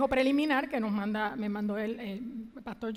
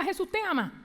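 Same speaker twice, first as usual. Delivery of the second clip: pleading plea; 7 semitones higher than usual. Retold or imitated. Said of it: "yo con Él llorando".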